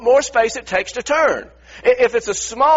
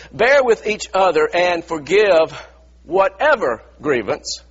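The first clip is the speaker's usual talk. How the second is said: slow reading that dwells on "whatever"; emphatic scripture reading; 3 semitones lower, slower than usual. Shown as a demonstration. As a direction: read it slowly, weighting "whatever". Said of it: "Let me emphasize that".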